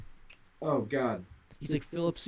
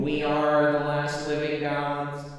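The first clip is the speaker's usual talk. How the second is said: slow booming alien god; 4 dB louder, slower than usual. Pretend. Continuing alien bit.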